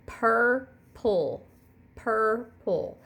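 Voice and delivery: purple stretched into pur-ple; two clear beats on purple; syllable demo. Shown as a demonstration. Teacher repeating purple for the class. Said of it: "you'll say purple".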